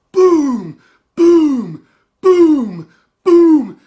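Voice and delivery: loud, high imitated booms; loud booming pounding noises. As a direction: bang out each boom like a cinder block slammed on the floor.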